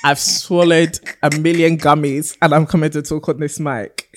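sick throaty voice; hoarse from a throat infection. Real, not acted. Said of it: "That's why I sound like".

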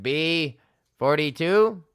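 slow, drawn-out bored bingo call; reluctant bingo caller. Retold or imitated. Old lady reluctantly calling bingo, drawn out. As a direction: drag the number out like a tired old lady. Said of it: "a old lady who was reluctantly calling bingo".

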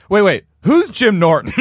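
mock innocent question. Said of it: "I was like".

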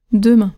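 "demain" with MAIN accented and slightly falling; deMAIN, settling downward; last-syllable stress. Shown as a demonstration. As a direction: lean on the final syllable of "demain". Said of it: "la dernière syllabe qui est accentuée".

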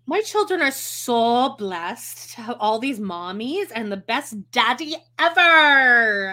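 slow, syrupy read with drawn-out words; mock gushing. Reader mocking Robin praising the mommies and daddy, gushing. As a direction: stretch the last word in fake adoration.

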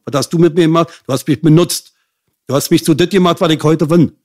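rising retold anger. Confronting his mother, retold.

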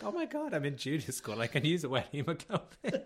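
mock-delighted kid showing off a word; giddy pride. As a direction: gush like a proud schoolkid. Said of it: "I was like".

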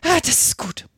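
high-pitched queen's approval; satisfied queen. A narrator's reading. Zufriedene Königin antwortet den Soldaten. (zufriedene Königin mit hoher Stimme)

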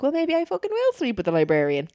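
hammed-up furious comeback; spiteful retort. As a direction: fling it back like a jealous partner mid-row. Acted fight retort, rising anger.

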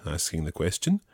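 ordinary delivery

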